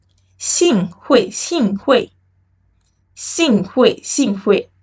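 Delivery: 幸会 drawn out slowly with clear tones; slow model. Shown as a demonstration. Teacher modelling formal 幸会 for students to repeat. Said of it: "Can you take it again?".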